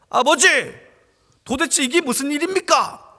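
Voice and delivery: elder son angrily confronting his father; angry son. Acted. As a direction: protest to the father, outraged.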